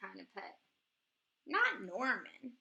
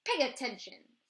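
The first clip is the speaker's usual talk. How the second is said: snapping; 6 dB louder than usual. Acted. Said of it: "snaps Maestro".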